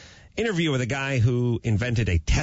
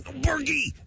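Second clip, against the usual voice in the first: much higher hushed yell; quiet yell. Retold or imitated. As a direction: yell under your breath. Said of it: "I'm doing a quiet yell".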